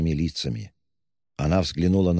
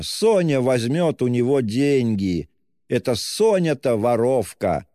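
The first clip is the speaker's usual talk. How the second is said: much higher, slow enraged tirade; furious; 6 semitones higher, slower than usual. Acted. Katerina rages at Luzhin, much higher and furious. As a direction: rage at him, hammering each insult.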